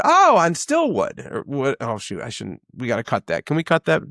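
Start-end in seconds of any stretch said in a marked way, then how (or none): 0.0-1.8 high, slowed, delighted guess; higher and drawn out, showing he knows the street; eager guess. Retold or imitated. Owner guessing a customer's street, mock excited. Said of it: "and I said".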